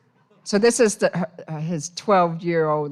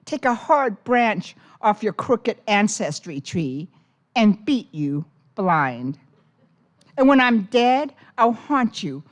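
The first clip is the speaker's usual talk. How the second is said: a fierce grandmother warning, louder at the start; grandmother's threat; 3 semitones higher, 3 dB louder than usual. Acted. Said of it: "Her grandmother says".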